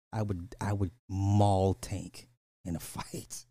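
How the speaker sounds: slow boast that breaks into a laugh. Real, not acted. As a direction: say it slowly and crack up at the end.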